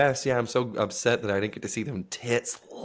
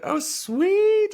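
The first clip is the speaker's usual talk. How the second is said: excited yelp; 5 dB louder than usual. Retold or imitated. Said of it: "And I was like".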